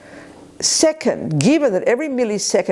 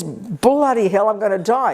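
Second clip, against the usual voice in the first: alarmed realization; 2 semitones higher than usual. Retold or imitated. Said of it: "the first point is".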